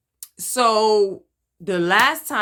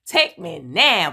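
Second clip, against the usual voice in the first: pleading prayer; 4 dB louder, slower than usual. Retold or imitated. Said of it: "nights I was like".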